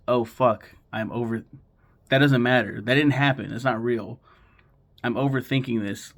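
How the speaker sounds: loud and worked up; loud realization. Retold or imitated. Viewer's sudden realization.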